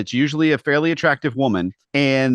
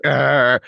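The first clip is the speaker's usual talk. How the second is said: mild mock growl of frustration; a grumpy growl held inside; inner growl; 3 semitones higher, 5 dB louder than usual. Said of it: "Inside, I'm just like".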